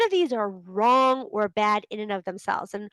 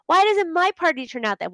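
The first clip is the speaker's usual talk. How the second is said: frustrated whine; 7 semitones higher than usual. Retold or imitated. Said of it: "and then you're like".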